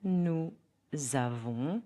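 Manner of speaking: NOUS AVONS as nou, pause, zavon; teacher's model of "Nous avons", Z link; liaison model. Shown as a demonstration. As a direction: say "Nous avons" in two slow parts, Z starting "avons". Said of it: "Listen and repeat after me".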